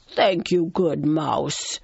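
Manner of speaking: lion voice with a touch of tenderness; gentle lion. Acted. Freed lion thanking the mouse, gently. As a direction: thank the little one gently. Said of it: "said the lion gently".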